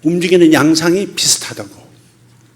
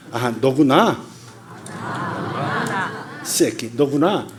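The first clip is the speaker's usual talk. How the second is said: serious recognition; 4 dB quieter, slower than usual. Shown as a demonstration. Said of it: "좀 진지하게 해봐".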